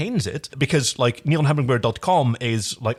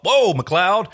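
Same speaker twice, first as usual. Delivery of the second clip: louder, joking calm-down call; John voice; 4 semitones higher, 3 dB louder than usual. Acted. John stopping Dargo's blade, louder joking call. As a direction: wave him off with a laugh. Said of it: "We're just gonna do some voices".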